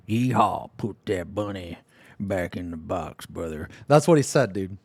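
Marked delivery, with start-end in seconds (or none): 0.1-3.7 a lightly done, self-mocking Southern drawl, slower and softer; bad Southern accent. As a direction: fake Southern twang, half-hearted. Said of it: "I can't even do a Southern accent".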